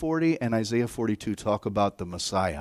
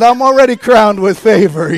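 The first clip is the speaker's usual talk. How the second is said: delighted boast; 10 semitones higher, 15 dB louder than usual. Retold or imitated. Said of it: "I said".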